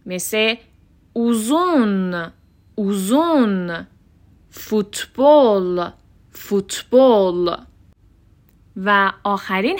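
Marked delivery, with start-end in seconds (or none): 1.1-7.6 "اوزون" and "فوتبال" slowly with rounded oo; back U examples. Shown as a demonstration. Teacher giving examples, "فوتبال" very slow with Turkish u. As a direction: stretch "اوزون" as oo-zoon. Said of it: "هفتمین حرف صدادار".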